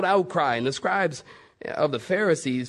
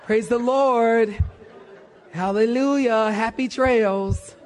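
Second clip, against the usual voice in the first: laughing exclamation; 6 semitones higher, slower than usual. Acted. Preacher's playful exclamations.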